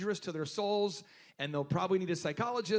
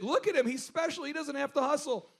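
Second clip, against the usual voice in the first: coach mocking; 5 semitones higher than usual. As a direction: coach mocking a slacker, pitched higher. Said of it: "he's like".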